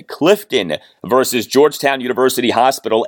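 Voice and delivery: upbeat sponsor read, punchy and sold. Acted. Podcast host reading a law firm ad, in a polished ad-read voice. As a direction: pitch the law firm like a radio spot.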